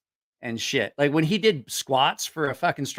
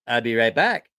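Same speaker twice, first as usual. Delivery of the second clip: lower, accented imitation of a buddy; lightly put-on accented voice, pitched down; Mike Tyson; 5 semitones lower than usual. Buddy answering about an unpaid loan, lightly imitated accented voice. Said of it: "Mike Tyson voice with an accent".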